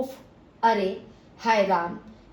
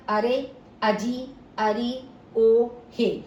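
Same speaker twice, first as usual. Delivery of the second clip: calling out; 3 dB louder, much slower than usual. Shown as a demonstration. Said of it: "संबोधन बोधक".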